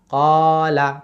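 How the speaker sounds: কলা with a long held ক and a quick লা; stretched first syllable. Shown as a demonstration. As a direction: hold ক, then drop quickly onto লা. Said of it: "কতে টান".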